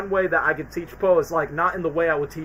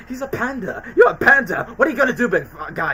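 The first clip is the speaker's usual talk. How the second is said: mocking taunt; 6 semitones higher, 4 dB louder than usual. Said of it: "just be like".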